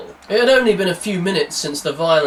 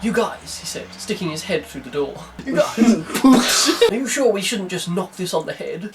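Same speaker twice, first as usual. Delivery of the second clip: put-on Wolverhampton accent; 3 semitones higher than usual. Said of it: "He said "yow" rather than "you," because he was from Wolverhampton".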